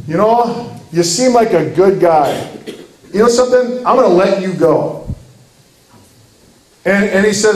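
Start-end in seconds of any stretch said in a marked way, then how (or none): 0.1-5.1 lightly voiced easygoing judge, slightly lifted pitch; a touch of kindly, credulous acceptance; lenient judge. Judge believing the apologetic murderer, mildly lenient.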